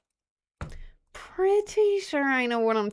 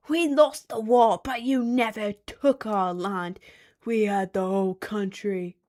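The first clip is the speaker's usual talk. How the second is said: angry British person; 4 dB louder than usual. Acted. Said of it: "we have an angry British person in the chat".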